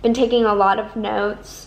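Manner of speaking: talking while chewing food; mouth full. Real, not acted. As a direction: speak round a mouthful of tortilla. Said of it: "I'm currently eating a tortilla".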